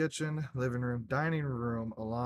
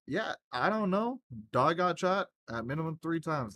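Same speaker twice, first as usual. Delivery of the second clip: higher, pressed retelling to the cop; worked up; 5 semitones higher, 3 dB louder than usual. Retold or imitated. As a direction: rush the report out, still keyed up. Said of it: "I'm like".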